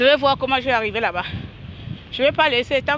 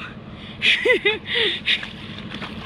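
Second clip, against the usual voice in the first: high laugh; 10 semitones higher, 4 dB quieter than usual. Real, not acted. Laughing after stepping into deep water.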